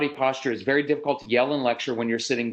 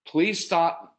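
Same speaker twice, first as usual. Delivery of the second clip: curt, higher-pitched request; jerky plea; 4 semitones higher than usual. Shown as a demonstration. Parent telling a child to stop, slightly jerky. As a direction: say it a bit jerkily. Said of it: "I didn't mean to say it like that".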